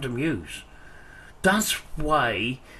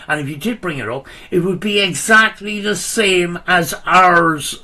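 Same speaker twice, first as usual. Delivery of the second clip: loud heated rant, getting louder; tearing into him, voice raised; wild unhinged ranting; 3 semitones higher, 4 dB louder than usual. Real, not acted. Heated argument with rival youtuber.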